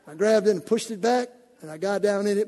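usual speaking voice

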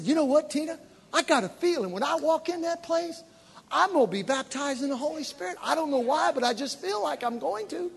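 high, lightly voiced eager confiding; hushed expectancy. Convert confiding in Tina outside the church, high expectant voice. Retold eager hunch on arrival.

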